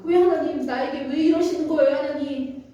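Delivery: mild acted protest; a touch of aggrieved pleading; protesting to God. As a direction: question God as the wronged Job, lightly plaintive. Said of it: "그럼에도 하나님께 항변을 합니다".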